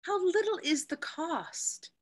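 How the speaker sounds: high, breathy whisper to herself; whispered aside. Acted. Portia musing privately about Antonio, in a whisper. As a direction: whisper the thought as a secret aside.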